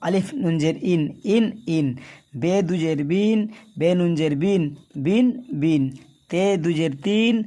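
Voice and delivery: letters read ending on ইন, বিন, তিন with the n sounded; tanween drill. Shown as a demonstration. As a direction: repeat each syllable, landing on the n. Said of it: "এইভাবে পড়বেন".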